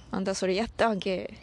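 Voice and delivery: casual question in Toyama dialect. Shown as a demonstration. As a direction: ask it the local Toyama way. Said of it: "富山弁について話そうか". (富山弁でくだけた問いかけ)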